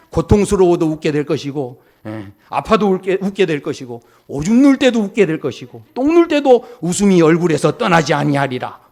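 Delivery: loud, hammed-up divine decree, building; mock curse. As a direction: thunder out each clause of a pretend curse.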